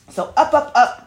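bright upward call to a pet; calling the puppy up. Real, not acted. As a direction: chirp it up to coax the puppy onto your lap. Coaxing puppy onto lap.

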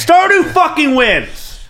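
each word slow and firm; slow emphatic declaration. Real, not acted. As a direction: lay it down as final. Insisting over coin flip.

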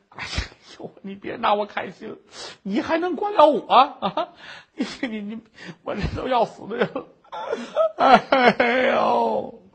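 sobbing, half-laughing despair; crying. Acted. Widow sobs at the beggar who keeps asking. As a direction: cry out the words between sobs. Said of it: "这哭".

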